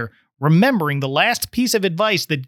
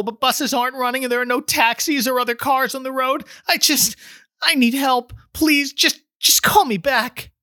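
high, breathless panic on a voicemail; pleading for help, rushing and pitched up high; out of breath and panicked; 8 semitones higher than usual. Acted. Mary begging Joey to call back, panicked and high. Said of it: "sounded out of breath and panicked".

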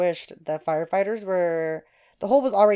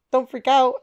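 higher, louder retold echo; alarmed echo; 4 semitones higher, 5 dB louder than usual. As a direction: throw his words back in alarm. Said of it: "I was like".

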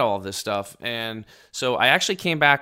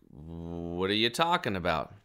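baffled; 5 semitones lower, 4 dB quieter, slower than usual. Retold or imitated. Acting out his baffled reply.

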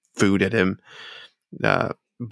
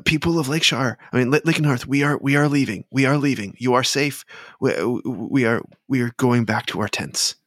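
higher-pitched prince addressing townsfolk; Prince Adair; 5 semitones higher, faster than usual. Acted. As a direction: reassure a crowd in a raised pitch. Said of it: "and Prince Adair says".

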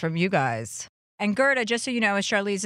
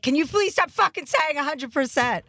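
higher, fed-up retold snap at the catchphrase; half-mock fed-up outburst; exasperated outburst; 9 semitones higher than usual. Snapping at friends' catchphrase.

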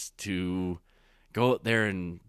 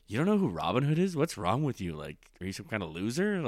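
condescending. Retold or imitated. Snob mocking a friend's ignorance, condescending and scornful. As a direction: sneer at someone who doesn't know. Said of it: "As opposed to".

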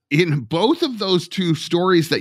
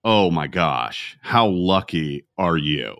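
mock envious onlooker; 9 semitones lower than usual. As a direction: lightly mimic people calling you lucky. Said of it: "you get told".

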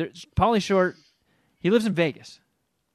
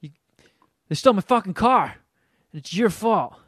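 mock yell; 3 semitones higher than usual. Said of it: "I hear this guy".

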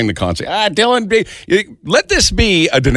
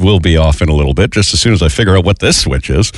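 mock airline captain on the intercom; pilot announcement; 8 semitones lower than usual.

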